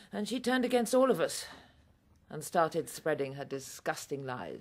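bitter anger. Acted. Rising bitter accusation.

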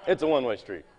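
"It's a one-way street" through a chuckle; laughing. Real, not acted. Repeats joke while laughing.

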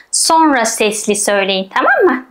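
ordinary talk

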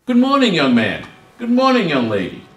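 bright good morning, smiling to each passing student; cheerful smiling greeting. Retold or imitated. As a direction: greet them like a friendly dean with a smile. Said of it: "with a smile on his face".

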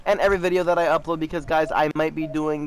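upbeat outro read to the viewers; chirpy sign-off pitch; youtuber outro. Acted. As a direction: sell the like and subscribe.

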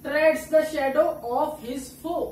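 very slow, every word drawn out; slow example reading. Shown as a demonstration. Teacher reading a poem line slowly for students. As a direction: read the line out slowly so students catch each consonant. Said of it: "example जैसे उठा लिए".

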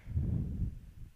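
breathy laugh. Acted. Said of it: "She started to laugh hysterically".

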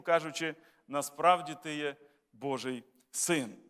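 solemn public reading of scripture. Acted. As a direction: read the passage to the congregation. Pastor reads Bible passage aloud.

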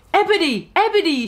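a mock sad call after her; lightly acted sad shout; shouted sadly. A narrator's reading. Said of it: "shouted Draco sadly".

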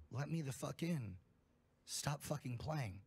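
light imitation of a creature with no human cadence; halting, weirdly toned voice. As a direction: mimic a talking animal, halting and off-rhythm. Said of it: "in this halting, weirdly toned voice".

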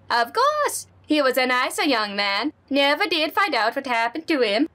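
put-on friendly neighbor lady, lightly accented; Honda-san voice. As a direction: play the sweet old neighbor.

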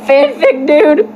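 high cringing squeal; laughing squeal. Real, not acted.

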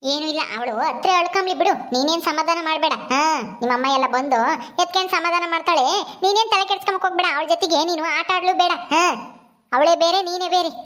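a hint of a stern old granny; lightly voiced disapproving grandmother. Grandmother tells Ramu to leave the girl crying, dismissive. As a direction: discourage him, grandmotherly and dismissive.

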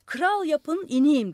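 high, loud bargaining shout; loud demand. A narrator's reading. Madman on the roof shouting his demand, loud. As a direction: bellow the demand.

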